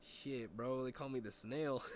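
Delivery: lightly imitated buddy's accent; a touch of his friend's smooth talk; Chavez's way of talking. Buddy boasting of his nickname, lightly imitated accent. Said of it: "that's how Chavez talks too".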